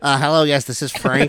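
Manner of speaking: a lightly voiced dim guard answering the phone; Frank impersonation. Friend imitating the guard Frank answering the kid's call. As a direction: play the guard picking up, a touch dopey. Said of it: "Spot on Frank impersonation".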